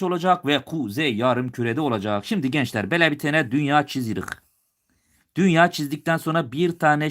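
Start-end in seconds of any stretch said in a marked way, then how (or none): 2.9-4.2 lightly put-on Turkish dialect; a touch of regional Turkish dialect. Shown as a demonstration. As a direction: slip briefly into provincial Turkish dialect. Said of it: "biraz şive yapacağım".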